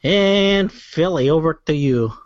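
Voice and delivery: vaguely Russian accent, badly faked; unplaceable put-on accent. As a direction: hand over in a wobbly fake accent. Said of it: "I don't know what accent I'm doing".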